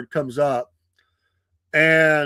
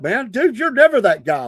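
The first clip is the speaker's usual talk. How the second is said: higher, louder, imitating a disbelieving buddy; incredulous friend; 7 semitones higher, 6 dB louder than usual. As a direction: friend stunned he's picking a fight, loud disbelief.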